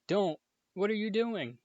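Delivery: hissed. A narrator's reading. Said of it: "Harry hissed".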